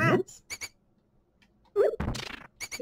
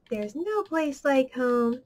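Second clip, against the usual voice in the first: Wizard of Oz line; slower than usual. Retold or imitated. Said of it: "Wizard of Oz".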